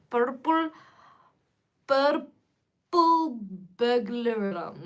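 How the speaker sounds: slow, hammed-up Scottish accent; a clumsy try at a Scottish accent; bad Scottish accent. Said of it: "I'm really bad at a Scottish accent".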